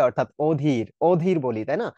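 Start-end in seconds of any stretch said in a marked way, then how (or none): 0.5-0.8 অধীর with a rounded "oh" first vowel; soft ও sound. Shown as a demonstration. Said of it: "একটু soft সেন্সে". 1.1-1.4 অধীর said as "OH-dhir"; closed ও sound. Shown as a demonstration. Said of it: "ও এর মতো উচ্চারণ".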